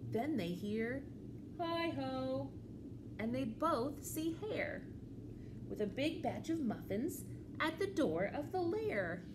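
lively, measured storytime reading; children's story read-aloud. A narrator's reading. Librarian reads a picture book to children, animated storytelling. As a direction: read to little ones, pausing before the reply.

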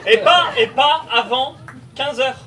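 en riant. Acted. Joking advice, laughing.

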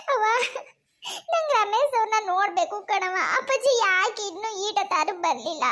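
acted crying plea; tearful pleading. Daughter asks mother for her husband, crying. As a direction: sob out a worried plea. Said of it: "ಹಿಂಗೆಲ್ಲ ಅಳ್ಬಾರ್ದು ಕಣವ".

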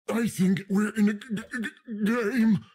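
stuck on g-, with a laugh, then a high game; glitchy stutter. Acted. Narrator stumbling to say they're in a game, stuttering with a laugh. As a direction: stammer like a skipping record, then land on game.

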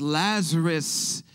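drawn-out, slow calling of a name; retold yell. Preacher voices Jesus calling to Lazarus, retold yell. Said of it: "Jesus then yells".

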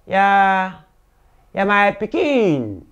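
soft, slow fatherly words; tender reassurance. Acted. Oga gently telling the boy he is like his own child. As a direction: soothe him like your own child.

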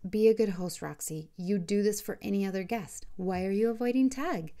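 feigned innocence, sweetly; too innocent. Acted. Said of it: "with a way too innocent voice".

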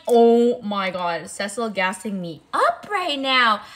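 loud, slow, gushing delight. Retold or imitated. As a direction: savour the compliment out loud. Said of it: "I was so happy".

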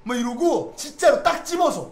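usual speaking voice

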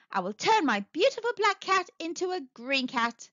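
high-pitched magician's announcement; announcing. A narrator's reading. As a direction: present the trick to an audience. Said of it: "announced Winnie".

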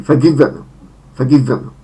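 forGIVen, short e first, short i in the middle; second-syllable stress. Shown as a demonstration. Teacher models the third form, forgiven stressed on second syllable. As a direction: stress "giv" in forgiven, vowel kept short. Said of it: "akcent na drugą sylabę".

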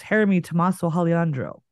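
Jeremy said as "Heremy", the Spanish way; playful Spanish rendering of Jeremy Tomaso Alejandro; Spanish pronunciation. Retold or imitated. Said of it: "how do you say my name in Spanish".

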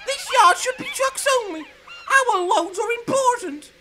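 sneering trucks. Acted. Trucks jeer at Clarabel that the yard is for trucks. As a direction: sneer it out, the last part slow.

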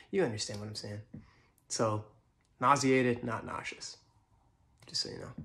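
soft, patronising correction; first-date guy lecturing his date on nauseated; condescending date guy. Retold or imitated. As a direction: talk down gently while correcting her word. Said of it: "my impression of a guy who goes on a lot of first dates".

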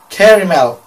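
deadpan repeat of "caramel" as "KERRY-mel"; caramel said her way. Retold or imitated. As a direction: confirm it, imitating her "caramel" with "care" at the front. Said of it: "That word".

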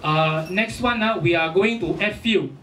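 put-on Singaporean Ah Beng accent; deadpan Singlish delivery. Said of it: "this Mister Abeng says".

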